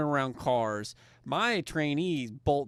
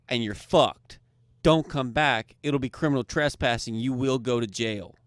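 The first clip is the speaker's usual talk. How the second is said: retold stern warning; 7 dB louder than usual. Retold warning to banned gambler.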